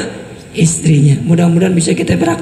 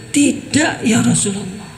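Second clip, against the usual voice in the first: soft reply; 5 dB quieter than usual. A narrator's reading. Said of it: "Jawab Aisyah".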